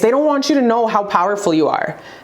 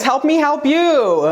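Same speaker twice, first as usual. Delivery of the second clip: laughing; 5 semitones higher, slower than usual. Real, not acted. Laughing plea to listeners.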